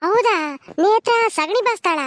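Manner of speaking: astonished question. Acted. Hearing that Netra gathers dung, astonished. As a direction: lift the pitch in disbelief.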